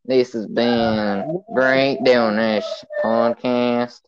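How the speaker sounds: slow, drawn-out sign-off voice; mock-solemn slow announcer. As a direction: announce the ending, stretching every phrase.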